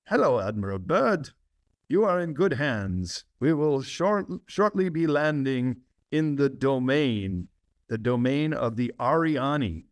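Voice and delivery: a light Nordic or German accent on a retold alien pilot. Pilot greets Admiral Byrd over radio, hint of a German accent. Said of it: "with a Nordic or German accent".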